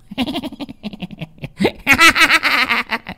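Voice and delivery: high mocking laugh; evil cackle. A narrator's reading. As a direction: cackle at her humiliation. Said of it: "tiếng cười mọi dợ". (tràng cười độc ác khinh bỉ)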